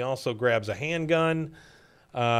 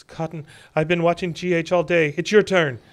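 louder, higher, fed-up complaint; pissed-off retold wife; 4 semitones higher, 4 dB louder than usual. Wife to Cotton after watching the baby all day, annoyed. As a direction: voice an annoyed mother handing over duty. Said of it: "she sounds pissed".

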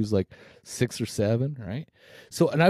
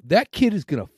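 retold angry outburst; 4 semitones higher than usual. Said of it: "I go".

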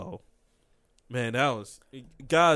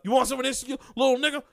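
loud, higher mock cop bark; mock cop threat; 7 semitones higher, 5 dB louder, faster than usual. Retelling a police stop, cop threatens loudly.

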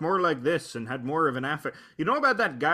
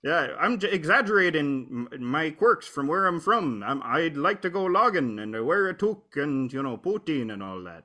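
exaggerated Canadian accent. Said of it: "plays up his Canadian accent".

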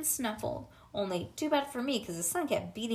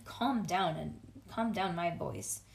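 calming; 5 semitones lower than usual. Acted. Teacher soothes upset child.

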